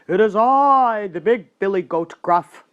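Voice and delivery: big goat's loud hoarse bellow; ugly hoarse goat. A narrator's reading. Big goat answers the troll, loud, ugly and hoarse. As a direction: announce yourself in a hoarse bellow. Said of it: "an ugly hoarse voice of his own".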